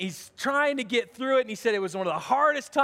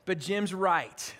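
grudging admission; 4 semitones lower, slower than usual. Real, not acted. Pastor grudgingly admitting his friend was right, lower and slow. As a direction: concede "Jim's right" through gritted reluctance. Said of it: "this is hard for me to admit".

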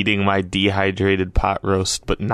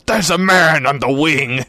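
high, loud yell of alarm; mock panicked yell; 7 semitones higher, 4 dB louder than usual. Telling Rocky what to yell from the plane window, mock yell. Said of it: "look outside and yell".

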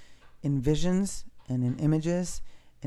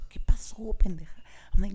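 whispered Spanish greeting, higher; soft whisper; 6 semitones higher, 3 dB louder, faster than usual. Retold or imitated. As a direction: breathe it out, barely voiced. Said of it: "we're softly whispering".

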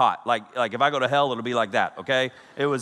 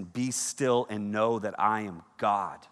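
soft reverent quote; 3 semitones lower, 4 dB quieter, slower than usual. Real, not acted. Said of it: "That is my verse".

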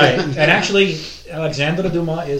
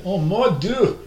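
grandmother's exclamation; 8 semitones higher, 5 dB louder, slower than usual. Retold or imitated. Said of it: "my grandmother".

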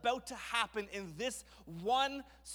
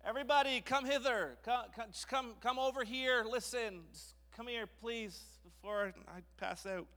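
higher-pitched call to a crowd; 5 semitones higher than usual. Acted. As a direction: summon everyone over, halting and repeating. Moses calling the crowd over.

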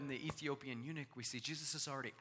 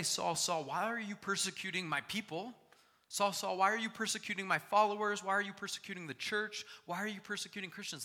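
high, loud mock quote of what Jesus did not say; mock wrong version; 10 semitones higher, 10 dB louder than usual. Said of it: "He does not say".

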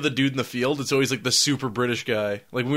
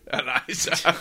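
British reporter voice; slower than usual. Retold or imitated. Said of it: "the biggest British voice you've ever heard".

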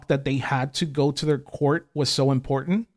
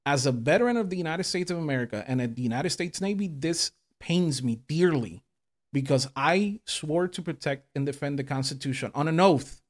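much softer, lower sincere apology; calmed down, apologetic; 4 semitones lower, 7 dB quieter than usual. Real, not acted. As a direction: bring it right down and apologize. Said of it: "I apologize for my verbiage previously".

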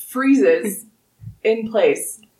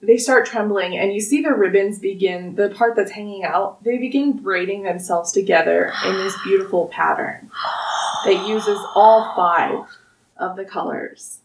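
storytelling narration. Acted. GM narrates the tree opening.

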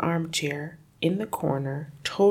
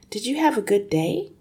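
put-on little girl voice; 6 semitones higher than usual. Girl's reply to father.

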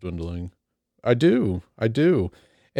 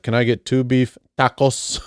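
mock Spanish accent on "tacos"; put-on Spanish dialect; 3 semitones higher than usual. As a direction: imitate someone adding a Spanish dialect to "tacos". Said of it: "add the proper dialect to any word".

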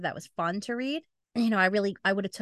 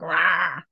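mock bear roar; 4 semitones lower, 4 dB louder than usual. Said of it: "There's the sound effect that you didn't need".

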